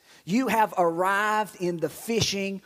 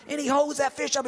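excited yell; 6 semitones higher, faster than usual. Retold or imitated. Imitating fisherman's celebration.

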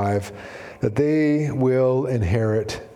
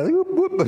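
high, playful imitated whoop; a sing-song whoop for a tipping object; light whoop. Professor's casual table tipping, acted as a light high whoop.

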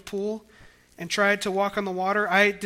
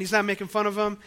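usual speaking voice

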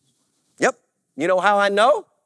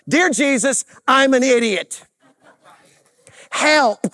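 punchy, full-voiced mock prayer; emphatic prayer. Shown as a demonstration. Preacher modelling a confession to Jesus, emphatic and full-voiced. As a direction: belt out each short phrase of the plea.

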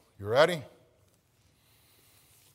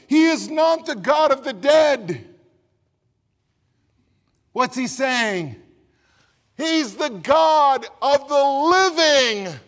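preacher driving home the point; preaching; 9 semitones higher, 11 dB louder than usual. Acted. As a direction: ring out the living God. Preaching, loud climax.

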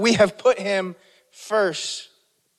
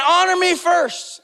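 higher, slower voice of God; preacher voicing God, pitched higher; 9 semitones higher than usual. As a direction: lift it up as God's command.

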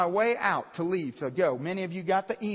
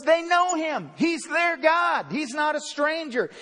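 raised, higher, forceful; preaching shout; 5 semitones higher than usual. Real, not acted. Preacher shouting to congregation, forceful. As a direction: proclaim it to the room.

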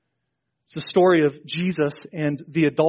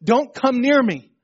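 higher, slow warning call; raised voice, drawn out to keep people away; retold yell; 7 semitones higher, 4 dB louder than usual. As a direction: imitate the leper warning people off. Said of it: "he would yell out".

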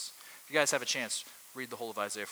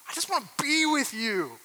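longing; 13 semitones higher, 9 dB louder than usual. Acted. Voicing a lover's longing.

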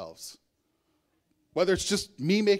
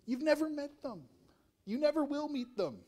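incredulous inner retort; 9 semitones higher, 8 dB quieter than usual. Retold or imitated. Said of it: "And I'm thinking".

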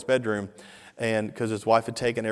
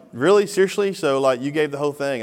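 mildly acted disbelief, pitched up on the first questions; incredulous; 4 semitones higher, 6 dB louder than usual. Questioning fiancée about her gift, incredulous. Acted quarrel over the donation.

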